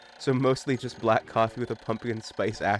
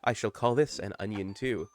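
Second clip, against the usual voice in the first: lightly voiced captain's log; understated character narration; Captain Olimar; 3 dB quieter than usual. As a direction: read it as a measured, wondering explorer's log.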